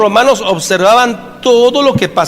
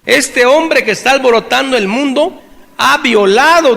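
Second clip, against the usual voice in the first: raised-pitch public accusation; higher-pitched mock outcry; accuser crying out; 4 semitones higher than usual. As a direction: denounce him to the crowd, pitch up. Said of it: "empieza a gritar".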